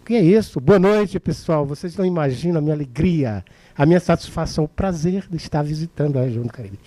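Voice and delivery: lively, forceful orator's greeting; full of soul. Acted. Orator thrilled to be visiting Cariri, lively and forceful. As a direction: greet the crowd with life and strength. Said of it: "o cara entrou com alma, com gesto, com vida, com força".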